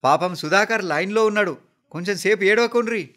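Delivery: high, loud plea to a crowd; urgent, high-pitched appeal; calling over wailing. A narrator's reading. Someone shouts over wailing mourners.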